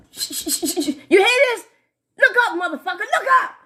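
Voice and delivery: giggling through the words, high; laughing. Real, not acted. Telling her live viewers to look up, laughing high. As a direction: laugh while pointing it out.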